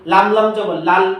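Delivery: slow, letter by letter spelling out each syllable; slow teacher spelling drill. Shown as a demonstration. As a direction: spell it out slowly for children. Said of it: "এভাবে আপনি একটা একটা পড়ান".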